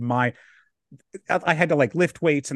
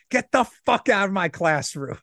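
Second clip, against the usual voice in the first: half-hearted teacher yell; imitating a roaring teacher; mild mock roar; 4 semitones higher than usual.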